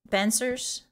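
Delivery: put-on drawling Valley Girl agreement. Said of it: "five minutes of Valley Girl".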